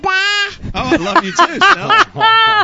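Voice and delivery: high, loud doting reply; gushing. Real, not acted. Replying to daughter's love.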